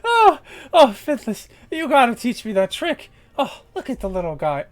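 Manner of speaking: high, loud gleeful mockery; a giddy harpy laughing at her prey; delighted teasing. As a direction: coo at the tiny orc like a pet. GM voices Clint delighted.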